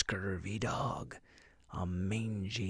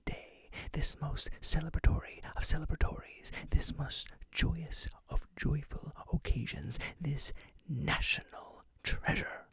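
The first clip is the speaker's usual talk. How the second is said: whispering pirate; 3 semitones higher than usual. Acted. Whispered pirate host throughout.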